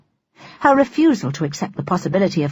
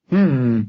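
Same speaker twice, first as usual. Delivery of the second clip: grunt; 5 semitones lower than usual. Acted. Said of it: "Fred grunted".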